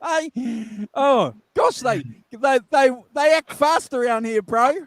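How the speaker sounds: high glitchy call audio; warbling sped-up sound; chipmunk voice. Real, not acted. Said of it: "you sound like the Chipmunks".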